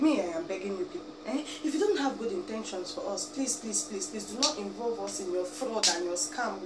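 ordinary talk

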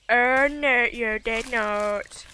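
slow, indignant disbelief. Real, not acted. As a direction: drag it out in disbelief. Indignant at game event.

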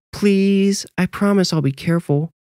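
put-on high child's voice, begging; pleading little boy. A narrator's reading. Boy begging parents to let him play, pleading.

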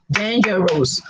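"Dangerous" in three separate beats, DAN-GER-OUS; syllable by syllable. Shown as a demonstration. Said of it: "Three or more syllables".

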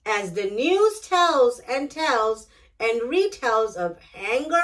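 gentle, measured picture-book narration; reading to children. A narrator's reading. Storyteller reading a picture book to young listeners, gentle and measured. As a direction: read it aloud like bedtime story time for kids.

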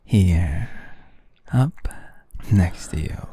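low, close whisper. Acted. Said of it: "I have to whisper a bit".

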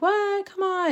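high, mock-indignant kid protest. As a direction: squeak it up like a let-down child. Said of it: "And we were like".

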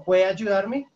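"¿Puede ayudarme?" pushed out loud and demanding, rising; aggressive request. Shown as a demonstration. Teacher shows how blunt "can" sounds to a stranger, demanding. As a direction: bark the favour at a stranger. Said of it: "Entonces suena así".

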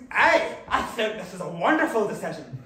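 put-on cheery Scottish accent, loud on the hey; a lightly done Scottish voice, eager and chuffed. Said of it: "Why is my dick Scottish?".

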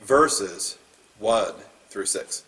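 steady, measured Bible reading; formal scripture reading voice. Acted. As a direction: read the passage to the congregation. Reads scripture aloud.

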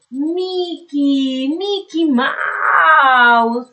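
Mickey stretched out very slowly; drawn out. Shown as a demonstration. Teacher slowly spells out Mickey's name, drawn out. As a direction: draw out Mickey Mouse for the kids. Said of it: "teacher stretches name for children".

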